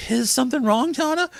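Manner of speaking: put-on high-pitched concerned boyfriend; concerned Crash. A narrator's reading. Boyfriend asking his angry girlfriend, high and concerned. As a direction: ask with concern in a high character voice. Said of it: "concerned as to what his girlfriend".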